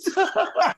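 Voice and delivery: high shriek of laughter. Real, not acted. Dispatcher remembering the lawnmower call, shrieking laugh. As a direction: scream with laughter. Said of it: "and I screamed".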